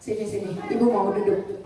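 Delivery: put-on soft call to child. Shown as a demonstration. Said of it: "Kalau sama anak gimana?".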